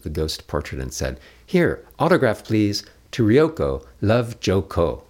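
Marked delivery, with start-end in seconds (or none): 1.4-5.0 high, louder coy request; the girl asking her new friend for an autograph; high teasing girl voice; playful teen girl. A narrator's reading. Ryoko asks for autograph.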